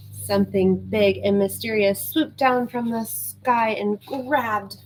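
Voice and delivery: lively read-aloud narration; storybook reading. Acted.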